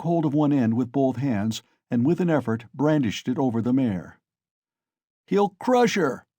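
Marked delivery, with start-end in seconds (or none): 5.3-6.3 high, loud, slow alarmed cry; shouted. A narrator's reading. Onlooker warning as Mikolka raises the shaft, high slow shout. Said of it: "was shouted round him".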